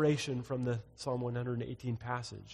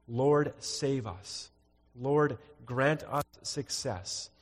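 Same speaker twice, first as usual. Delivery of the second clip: slow scripture reading; much slower than usual. Acted.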